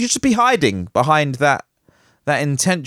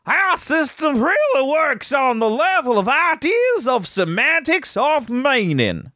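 put-on terrible Texan accent; 10 semitones higher than usual. Podcaster mocking a Texas scientist in a hammed-up Texan accent. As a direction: ham up a cowboy reading the quote. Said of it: "That was a terrible accent".

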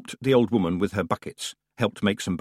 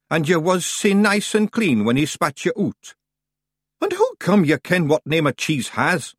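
Scottish Feegles; 8 semitones higher, 4 dB louder than usual. Acted. Feegles argue on log.

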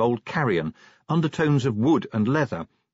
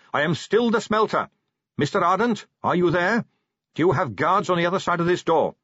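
lightly voiced captain, higher pitched; Carrot, announcing; 7 semitones higher, 3 dB louder than usual. A narrator's reading. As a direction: address the crowd officially, pitch raised. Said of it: "Carrot announced".

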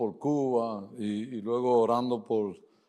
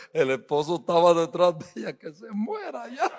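laughing quote; 4 semitones higher than usual. Retold or imitated. Quoting the husband, laughing.

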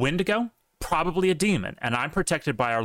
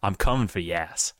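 wrestling promo; 2 semitones lower than usual. Pretend. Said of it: "an anti-Bigfoot, like, wrestling promo".

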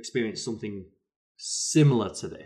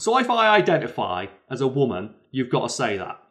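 put-on drunk heckle; 4 semitones higher, 7 dB louder than usual. Drunk man arguing back.

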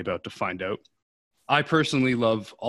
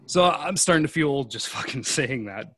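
laughing; 3 semitones higher than usual. Real, not acted. Laughs at own age joke.

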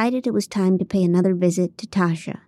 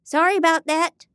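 mock yell; 9 semitones higher than usual. A narrator's reading. Marie apologizing up to the producers, lightly yelled. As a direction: call out an exaggerated apology. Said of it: "I yelled at a volume".

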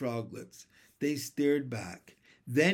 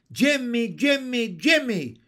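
high, loud little frog chant; froglets shouting; 7 semitones higher, 7 dB louder than usual. A narrator's reading. Froglets call for their brother, high shouting chorus. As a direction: cheer the name in excited bursts. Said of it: "shouted a chorus of froglets".

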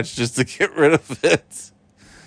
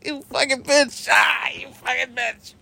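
being tickled; 8 semitones higher than usual. Real, not acted.

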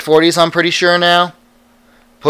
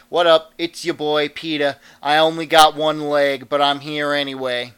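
lightly hammed-up Jersey greeting; Jersey accent. Peter shows up to greet everyone, Jersey accent. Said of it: "going hard with the Jersey accent".

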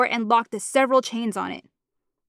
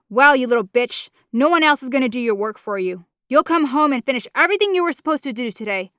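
angry mother; 3 dB louder than usual. Acted. Mama berating her daughter for going to college.

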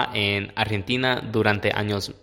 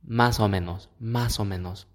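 aspirated s; 3 dB quieter than usual. Shown as a demonstration. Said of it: "hay más aspiración".

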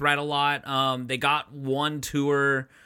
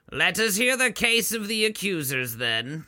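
lightly voiced judge, pitched up; presiding judge; 4 semitones higher than usual. Judge calling on the accusers in a mock trial, lightly put-on voice. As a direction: give it a hint of formal courtroom authority.

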